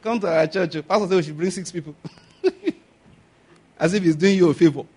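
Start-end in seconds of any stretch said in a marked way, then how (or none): 0.0-1.9 mocking lazy invite. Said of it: "not like".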